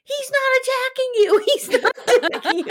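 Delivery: very high, loud mock screech; Robin. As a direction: yelp a hammed-up frantic defense. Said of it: "Robin's like".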